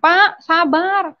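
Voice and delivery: high-pitched, drawn-out pleading call; imitated neighbours' cry. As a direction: call out like neighbours urging a father to stop. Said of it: "tetangga-tetangga tuh teriak".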